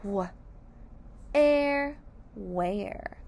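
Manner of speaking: W then air, then where; sounding out where. Shown as a demonstration. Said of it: "Let's sound out where".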